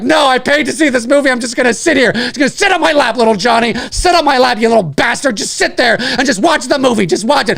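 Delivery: mock exasperated parent scolding; lightly voiced impatient parent; stubborn parent. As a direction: act out a fed-up parent insisting over the crying. Acts out stubborn parent scolding child.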